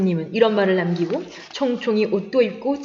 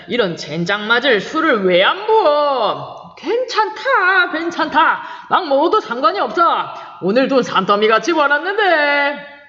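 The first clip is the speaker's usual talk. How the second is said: put-on a tipsy, higher and drawn-out drunk's voice; drunken bluster; 4 semitones higher, slower than usual. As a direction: lord it over the table, loosely. Drunk Kim shouts at friend.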